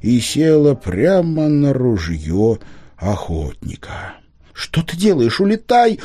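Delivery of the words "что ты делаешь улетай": high tearful cry of alarm, rising to Улетай. A narrator's reading. Girl crying out to the owl not to sacrifice herself. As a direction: call out to the owl through tears. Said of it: "крикнула Алиса сквозь слёзы".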